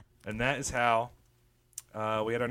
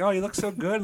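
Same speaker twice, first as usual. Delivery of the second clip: mock girly gushing; 10 semitones higher, 3 dB louder than usual.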